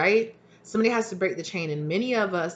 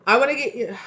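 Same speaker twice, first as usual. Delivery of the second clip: laughing through the demand, higher; half-laughing mock plea; giggling mock demand for pay; 7 semitones higher, 7 dB louder than usual. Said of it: "when we just say".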